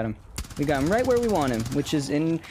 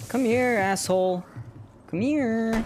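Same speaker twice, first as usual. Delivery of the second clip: high taunting come here; taunting call; 6 semitones higher, slower than usual. Real, not acted. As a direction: call the boss over, goading. Taunting boss in fight.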